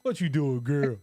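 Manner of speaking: light up at your friend; excited greeting. Real, not acted.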